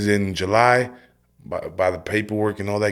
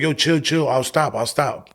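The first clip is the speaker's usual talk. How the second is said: retold pleading; 6 semitones higher than usual. Begging guards during the struggle.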